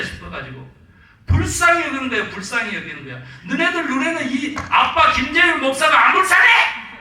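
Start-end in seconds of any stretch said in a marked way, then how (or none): 1.2-2.3 불쌍히 punched loud and much higher; shouted emphasis. Real, not acted. First take of repeated phrase, shouted. 3.5-7.0 loud, much higher, laughing; laughing mock shout. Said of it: "막 이러면서".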